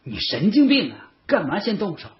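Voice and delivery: high, incredulous reproach; exasperated scolding. A narrator's reading. Friend rebuking him for hitting first, exasperated.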